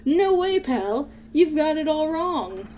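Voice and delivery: high startled protest; high alarmed denial; shocked denial. Acted. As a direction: recoil in disbelief. Gumshoe denying accusation.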